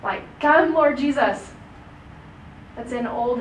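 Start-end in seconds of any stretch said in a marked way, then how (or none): 0.4-1.5 slow, louder pleading cry to the Lord; a slow guttural plea, higher and louder. Shown as a demonstration. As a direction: plead it from the gut, drawn out. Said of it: "like this guttural plead".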